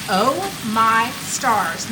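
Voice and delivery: slow, drawn-out delighted sigh; savoring the aroma, slowly; savoring a smell. Real, not acted. Smelling food cooking.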